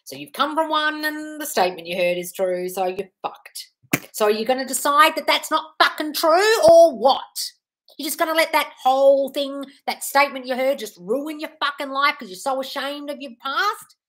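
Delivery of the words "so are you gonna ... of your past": fired-up scolding. Real, not acted. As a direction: shake her out of it. Scolding a viewer about her past.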